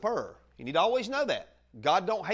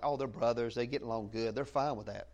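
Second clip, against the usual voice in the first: mock media spin; 7 semitones lower, 5 dB quieter than usual. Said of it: "tries to make it sound like".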